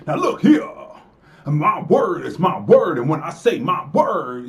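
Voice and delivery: hammed-up minstrel impression, mocking; mock blackface voice. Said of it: "that's me imitating a white man in blackface".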